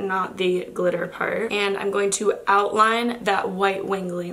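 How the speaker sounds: hoarse and stuffy from a cold; raspy nasal voice. Real, not acted. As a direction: talk through a head cold, raspy and nasal. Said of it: "my raspy and nasally voice".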